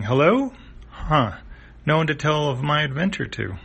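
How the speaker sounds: a touch of puzzled letdown; lightly acted lonely comic character; lightly voiced character. Comic character says hello to empty bridge.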